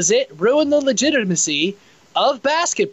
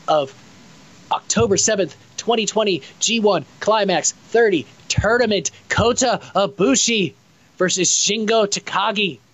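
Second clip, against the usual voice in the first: hammed-up podcast promo read; promo announcer. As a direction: sell the show like an ad.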